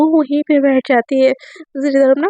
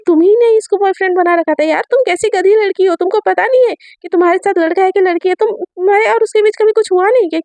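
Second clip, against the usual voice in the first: raised, higher accusing voice; scolding; 5 semitones higher than usual. Acted. Ayan scolding Aadhya about her fake boyfriend, angry. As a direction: berate her for being fooled.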